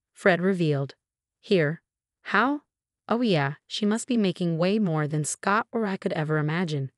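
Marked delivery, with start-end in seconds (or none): 1.4-6.9 exclaiming. Acted. Mother-in-law stunned by her daughter-in-law's salary, exclaiming. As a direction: blurt it out in disbelief. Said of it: "Trisha exclaimed".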